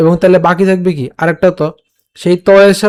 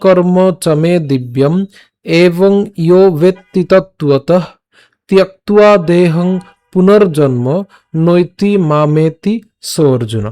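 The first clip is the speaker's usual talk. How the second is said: slow, drawn-out shloka recitation; verse recitation demo; slower than usual. Shown as a demonstration. Teacher recites again from the start for learners, slow measured recitation. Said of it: "আমি আবার প্রথম থেকে বলছি".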